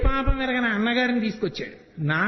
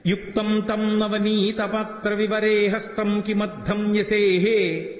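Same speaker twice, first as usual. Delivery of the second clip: verse recitation; much slower than usual. Shown as a demonstration.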